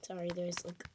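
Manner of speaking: soft, whispered and low; soft ASMR whisper. Real, not acted. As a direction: hush it for the microphone. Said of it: "just gonna do some A S M R".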